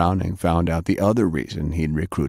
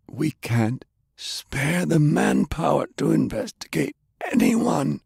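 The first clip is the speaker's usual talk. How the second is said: put-on lightly raised, indignant old gentleman; a pitch-raised, prim older man, gently scolding; Browning's voice; 9 semitones higher than usual.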